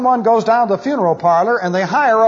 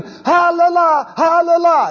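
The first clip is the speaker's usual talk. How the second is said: mourner's wail; 9 semitones higher than usual. Retold or imitated. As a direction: wail like a grieving widow pulling out her hair. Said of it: "she has to scream".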